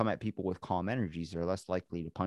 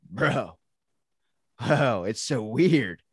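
amazed; 3 semitones higher, 7 dB louder, much slower than usual. Real, not acted. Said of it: "amazed grandpa texting".

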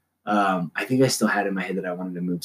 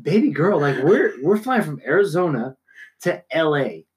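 higher, exaggerated disbelief; mock incredulous; 5 semitones higher than usual. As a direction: retell it as a baffled, high-pitched protest. Retelling incredulous reply to seatmate.

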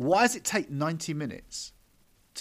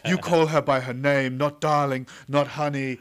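louder mock film heroine; heroine's broken English; 4 dB louder than usual. Mocking the heroine's cringy line, imitated indignant scolding. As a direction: scold like the film's heroine, hammed up. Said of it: "in her accent, in, like, this broken English thing".

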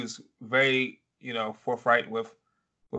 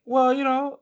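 put-on a touch of a much higher, sassy girlfriend voice; voicing Issa; 13 semitones higher, 4 dB louder than usual. Issa brushing Lawrence off, lightly mocking high voice. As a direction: pop up high on well.

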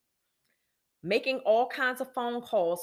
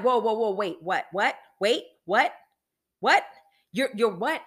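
shocked disbelief; 7 dB louder than usual. Retold or imitated. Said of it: "And I'm like".

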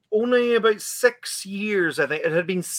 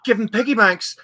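put-on higher, exasperated scolding of the teens; mock telling-off; 4 semitones higher, 5 dB louder than usual. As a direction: play the fed-up chaperone lecturing the group. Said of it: "a talking down".

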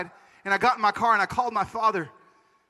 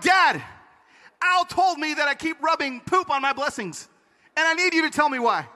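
higher-pitched, insistent plea; urgent plea; 6 semitones higher than usual. Retold or imitated. Son calling his dad for answers, urgent. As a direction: plead for an explanation.

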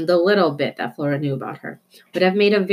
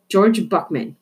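worried; 3 semitones higher, slower than usual. Acted. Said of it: "in a worried voice".

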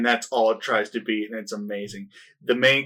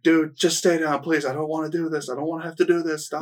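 mock pleading; 4 semitones higher than usual. Voices reluctant fighter begging opponent.

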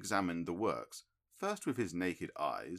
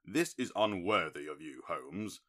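louder, stung and indignant; wounded indignation, voice raised; bitter reproach; 5 dB louder than usual. A narrator's reading. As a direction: scold a friend who hurt you. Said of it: "with considerable bitterness in my heart".

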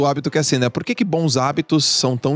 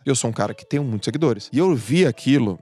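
ordinary delivery

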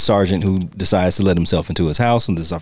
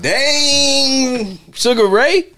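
much higher, amazed drawn-out exclaim; impressed dang; 14 semitones higher, much slower than usual. Real, not acted. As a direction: wow him, pitched up. Reacting to Sugar Ray's line.

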